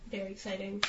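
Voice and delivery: deadpan monotone excitement. Real, not acted. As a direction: say it's exciting with no life at all. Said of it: "As you can tell by my monotone voice".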